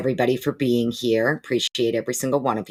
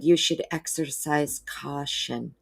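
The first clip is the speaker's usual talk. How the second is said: nicer, polite warning; 2 semitones higher, slower than usual. Retold or imitated. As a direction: warn him gently, word by word. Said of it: "they said it nicer than I would".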